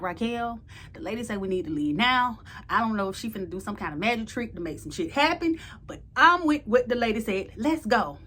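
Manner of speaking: loud, insistent let's-go; urgent plea. Retold or imitated. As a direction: push your friend to leave now. Urging Raquel to leave.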